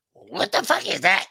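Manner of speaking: lightly imitated cartoon duck squawk; a hint of garbled duck voice; Donald Duck. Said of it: "I heard Donald Duck".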